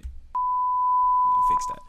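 squeaky falsetto, slow and loud; high-pitched mocking aside, slow; squeaky joke voice. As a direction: drop into a silly high cartoon voice, drawn out. Joking about name pronunciation.

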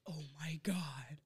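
slow, hushed retold shock; whispered disbelief. Student overhearing roommate at night, slow whisper. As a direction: whisper it slowly under your breath. Retelling a shocked private reaction.

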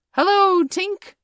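very high, loud hail; calling out. A narrator's reading. Boys greeting Tinker Bell in the sky, calling out. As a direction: hail someone far overhead. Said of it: "cried the wandering boys".

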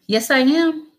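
put-on high, loud little-girl squeal; excited child scream. A narrator's reading. Little girl squealing yes to big sister. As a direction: squeal it like an eager eight-year-old. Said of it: "Ayanna screamed".

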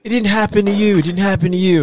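high, loud imitation of an outburst; acted-out heated protest; mock angry retort. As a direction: throw it back like someone mad in a quarrel. Retells a heated recorded quarrel.

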